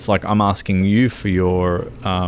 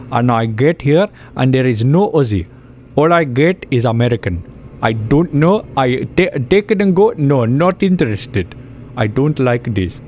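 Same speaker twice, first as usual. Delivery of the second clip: higher and louder complaining rant, fast in places; disappointed viewer rant; 3 semitones higher, 3 dB louder than usual. Retold or imitated. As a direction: vent like a let-down fan judging the video. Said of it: "Simon Cowell would love you".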